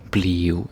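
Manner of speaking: "bliv" in one syllable with a U or W sound at the end; casual "bliv", ending on a W glide; everyday bliv. Shown as a demonstration. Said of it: "sort of like U or W, that kinda sound".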